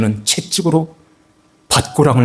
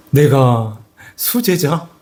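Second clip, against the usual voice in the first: bitter self-reproach; much slower than usual. Acted. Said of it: "와르르 무너지는".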